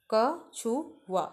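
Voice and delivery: कछुआ drawn out very slowly, each syllable separate. Shown as a demonstration. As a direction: spell out कछुआ slowly for kids. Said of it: "और ये है". (कछुआ को धीरे-धीरे खींचकर बोलना)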